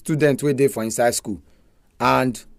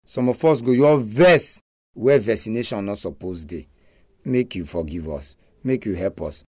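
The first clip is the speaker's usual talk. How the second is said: praying; 2 semitones lower than usual. Real, not acted. Leads a prayer.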